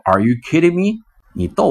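high, loud incredulous cry; shouted disbelief. Retold or imitated. Girlfriend yelling at the woman blocking the space, incredulous. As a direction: call out in disbelief at the man. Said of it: "女朋友就喊".

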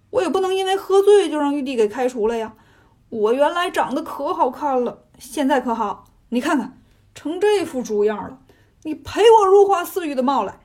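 indignant grumble rising at the end; aggrieved complaint. Acted. Zhu Ganglie blames Sun Wukong for his pig looks, aggrieved. 猪八戒向悟空抱怨.

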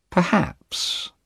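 high, drawn-out pondering; slow, measured. A narrator's reading. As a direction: stretch the word out thoughtfully, pitched high. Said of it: "he said slowly".

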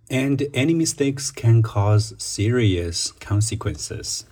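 slow, careful reading of an exam answer; model answer reading. Shown as a demonstration. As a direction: read it slowly, word by word, for students. Reads model answer sentence. (慢速示范朗读)

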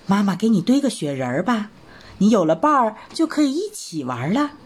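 fast, lightly cheerful mother rabbit; mother rabbit cheerfully offering a snowman, quickly; happy idea. Acted. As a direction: brighten up with a sudden idea. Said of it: "忽然高兴地说".

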